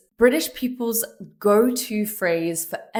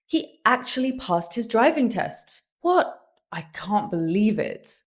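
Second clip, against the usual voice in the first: surprised; 2 semitones higher than usual. Shown as a demonstration. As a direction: react with disbelief. Surprised example.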